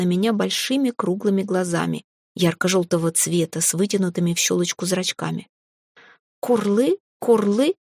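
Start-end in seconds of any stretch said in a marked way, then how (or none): 6.4-7.7 rising dragon coo, lightly voiced; a frightened little wail from the dragon. Startled dragon wails at the screaming heroine, mildly voiced. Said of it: "запричитала эта морда".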